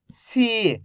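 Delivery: "सी" with a long, held ee; drawn-out long vowel. Shown as a demonstration. Teacher modelling for learners to repeat, "सी" drawn out. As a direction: stretch the vowel in "सी". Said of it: "खींच खींच के पढ़ेंगे".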